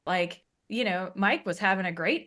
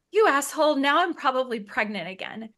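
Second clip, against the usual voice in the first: mock angry outburst; 5 semitones higher, 3 dB louder than usual. Retold outburst at husband.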